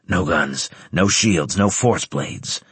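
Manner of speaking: slow, stern commanding officer; gruff barked parade orders. Acted. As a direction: lay down the rules, slow and firm. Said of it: "Centurion Graves's voice ordered".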